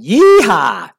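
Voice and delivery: loud, high, drawn-out cowboy whoop; shouted yeehaw. Retold or imitated. Fearless passenger on a turbulent flight, gleeful shout. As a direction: whoop it like riding a bronco. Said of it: "laughing and shouting".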